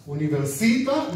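università with the weight on SI; stress on SI. Shown as a demonstration. Teacher models università for the class to repeat, stress on SI. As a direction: lean into the SI of università. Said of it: "according to the stress on the syllable".

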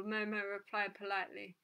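usual speaking voice

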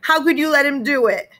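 high, pained accusation; hurt and outraged at mom; accusing. A narrator's reading. Peter accusing his mother, high and hurt.

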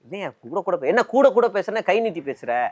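lightly acted indignant challenge; mock quarrelling. Politician dragging a rival into a fight, mock quarrelling. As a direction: imitate someone starting an argument on purpose. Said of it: "அந்த சண்டை வேணுங்கன்னே இழுத்து".

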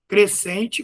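usual speaking voice

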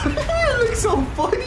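high squealing laugh through words; cracking up while talking; laughing hard. Real, not acted. Laughing at teammate.

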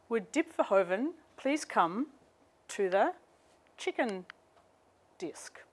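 slow, drawn-out New Zealand PA announcer, last word fading to a whisper; mock airport PA call. Lecturer retelling the airport PA calling her name, mock New Zealand announcer. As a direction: imitate the airport announcer's New Zealand vowels, "chicken disc" for check-in desk. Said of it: "this curious version of my name over the P A".

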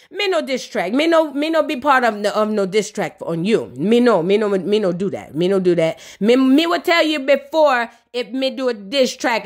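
imitated Jamaican patois accent; mock Jamaican patois, halting denial; a singer. A singer denies a diss track to Bambi, imitated Jamaican patois. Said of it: "Old Spice said".

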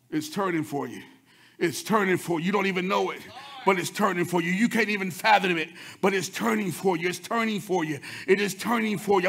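quiet, low, repeated promise; soft reassurance. Acted. Preacher quietly assuring the church it's turning. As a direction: lean in and calm them.

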